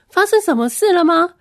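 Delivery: asking in sudden alarm; surprised. Retold or imitated. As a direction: voice jumps up in surprise. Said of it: "然后我就很惊讶的说".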